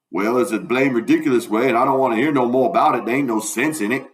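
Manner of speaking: lightly voiced grumbling dialect character; mildly put-out Southern character; Jim, dismissive.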